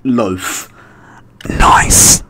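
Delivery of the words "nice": unvoiced whisper; hushed, whispery little cheer; whispered approval. Real, not acted. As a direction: whisper it with a long hissed ending. Hushed approval during game.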